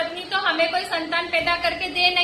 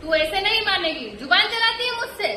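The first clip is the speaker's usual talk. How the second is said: angry accusation. Acted. Mother-in-law scolds the daughter-in-law for talking back, angrily. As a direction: snap at her for talking back.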